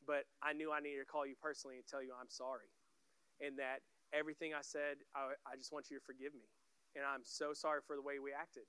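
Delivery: low, softened retold apology; sincere apology. Friend phones to say he's sorry after years, sincere apology. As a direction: quietly own up and ask forgiveness.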